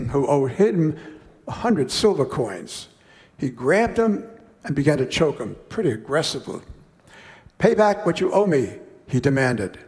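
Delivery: measured, unhurried Bible reading; slowing on the king's sentence; scripture reading. Acted. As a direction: read the parable to the congregation. Reads scripture passage aloud.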